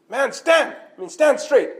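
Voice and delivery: high-pitched, emphatic command; stern order. Acted. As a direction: order a soldier to straighten up. Acted order to a soldier.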